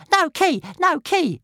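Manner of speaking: high little dragon shriek, kept soft. A narrator's reading. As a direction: shriek softly into a sleeping ear. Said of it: "shrieking softly".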